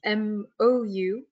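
M O U spelled letter by letter, slow; slowly spelled letters M O U. Shown as a demonstration. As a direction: spell out M O U, one letter at a time. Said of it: "why they're called mourning doves".

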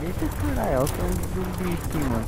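high, fast startled outburst; startled panic. Real, not acted. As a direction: blurt it out as the zombie jumps you. Zombie appears suddenly.

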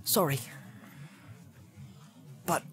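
a hint of an embarrassed hobbit; lightly voiced sheepish Sam. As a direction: Sam the hobbit apologising to Gollum, hurried. Sam apologises to Gollum.

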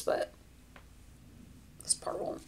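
breathy whisper under the breath; whispered aside. Real, not acted. Aside about camera focus.

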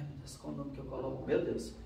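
fast, hushed worried aside to herself; anxious muttering. Retold or imitated. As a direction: rush it under the breath, flustered. Nervously picking a contest name.

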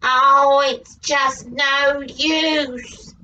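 low, slow, defeated wolf. Acted. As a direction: sigh it out as the wolf. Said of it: "said the wolf".

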